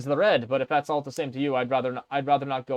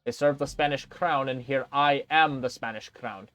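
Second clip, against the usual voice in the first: condescending. Acted. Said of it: "lips curl up condescendingly".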